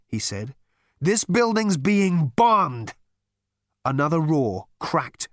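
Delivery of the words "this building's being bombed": high, loud, drawn-out alarm; alarmed shout. Acted. Zaphod realising the building is under attack, alarmed shout. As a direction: cry out in alarm, stretching the words.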